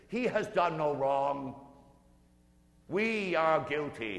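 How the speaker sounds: loud, slow earnest cry; calling out. Acted. Thief on the right rebuking the other thief, loud slow cry. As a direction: call out in defence of the innocent man. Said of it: "calls out and says".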